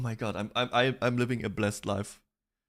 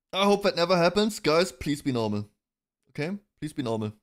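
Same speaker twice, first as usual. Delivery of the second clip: pleading; 6 semitones higher than usual. Real, not acted. Pleading with chat.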